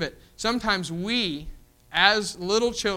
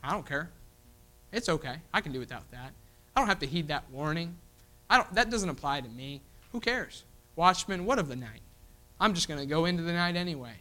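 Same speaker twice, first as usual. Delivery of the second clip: careless dismissal; 4 dB quieter than usual. Retold or imitated. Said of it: "our response as carnal Christians".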